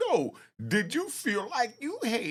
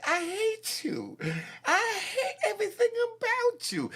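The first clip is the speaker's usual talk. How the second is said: mock emotional whine; 12 semitones higher than usual. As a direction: ham up a tearful lover. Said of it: "homies that would say".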